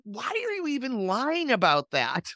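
high-pitched mock disbelief; baffled, imitating a listener's reaction; incredulous question. Listener reacting to a politician's pointless lies, mock incredulous. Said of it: "You're like".

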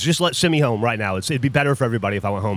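lightly imitated low, gravelly guy; mock gravelly big-guy voice; gravelly mountain man. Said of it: "gravelly voice".

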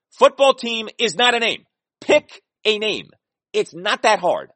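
exasperated insistence. Real, not acted. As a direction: pick a name, hit every beat. Rant repeating the point.

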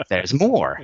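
hyped late-night TV pitchman; infomercial voice. Acted. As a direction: sell it like a late-night ad host. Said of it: "he says in his best late night infomercial voice".

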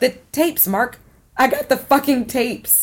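excited. Acted. She has just got the tapes.

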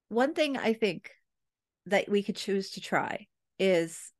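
slow, careful, non-demanding offer; gentle indirect suggestion. Retold or imitated. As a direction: ease it out slowly, no pressure. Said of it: "you can hear me modulating my language".

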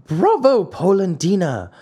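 high-pitched little cry; tiny voice. A narrator's reading. Unseen creature cheers the old man, tiny crying voice. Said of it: "cried the same tiny voice".

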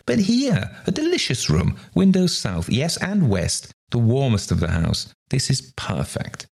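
high, thrilled exclamations; acted gushing enthusiasm; delighted cry. A narrator's reading. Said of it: "cried out".

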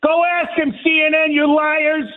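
angry accusation; real indignant rant; fed up. Real, not acted. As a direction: hurl it as a challenge to the network. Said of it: "Because I'm fed up".

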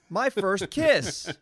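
slow, deadpan reading. Pretend. Rereading the label.

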